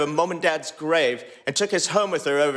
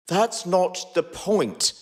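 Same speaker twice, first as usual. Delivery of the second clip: angry; 3 semitones higher, much slower than usual. Acted. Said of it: "The anger was back in Harry's voice now".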